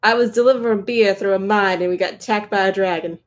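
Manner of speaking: lightly put-on Southern accent; Southern drawl. Co-host telling a dragon tale, put-on Southern drawl. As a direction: tell a yarn in mock Southern. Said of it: "Gotta do some Southern drawl".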